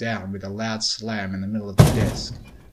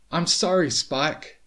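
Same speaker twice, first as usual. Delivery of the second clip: high, raised voice calling back; loud, higher-pitched shouted apology; shouted over shoulder; 6 semitones higher, 5 dB louder than usual. A narrator's reading. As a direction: call back loudly in a rush. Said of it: "Starlight shouted over her shoulder".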